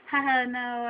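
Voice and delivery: mild retold polite laugh. Shopper brushing off the butcher's remark, light retold laugh. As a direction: brush it off with a small mock chuckle. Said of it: "I kinda just laughed it off".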